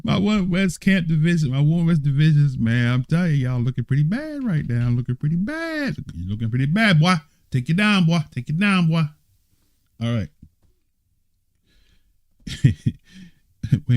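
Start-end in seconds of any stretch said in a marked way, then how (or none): 0.0-9.0 mock trash talk, a touch higher in pitch; playful taunting. Teacher taunting his West division, mock trash talk. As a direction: rib the other division like a rival. Teasing rival division at the reveal.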